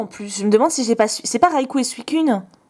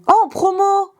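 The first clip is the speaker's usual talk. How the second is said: excited shout; 9 semitones higher than usual. Real, not acted. Shouting at viewers, thrilled to find a promo. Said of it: "Pardon, je vous ai crié dessus".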